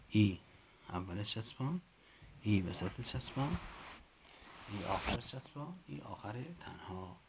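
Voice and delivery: rising sing-song on each form; teacher recital. Shown as a demonstration. Teacher modelling the chant for colleagues to repeat.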